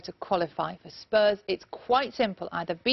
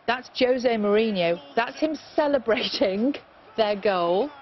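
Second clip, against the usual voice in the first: amused chuckle; slower than usual. Real, not acted. Amused at replay of Mourinho.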